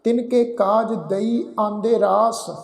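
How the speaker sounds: careful, measured Gurbani recitation, ਦਈ said clearly; slow scripture recitation. Shown as a demonstration. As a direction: recite it slowly and carefully, like teaching the verse. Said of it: "ਫਿਰ ਅਸੀਂ ਪਾਠ ਉਚਾਰਨ ਕਰਦੇ ਹਾਂ ਜੀ". (ਹੌਲੀ ਤੇ ਸਾਫ਼ ਗੁਰਬਾਣੀ ਪਾਠ)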